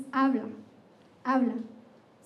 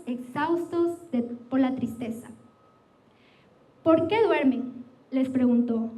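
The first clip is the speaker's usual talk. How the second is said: scripture reading. Acted. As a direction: read the gospel passage with weight. Reads scripture passage aloud.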